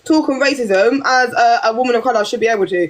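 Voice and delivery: insistent, impassioned pushback; fired up, passionate. Real, not acted. Woman demanding to be left alone like everyone else, fired up. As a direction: argue your case with real passion. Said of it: "you're firing now 'cause you're passionate".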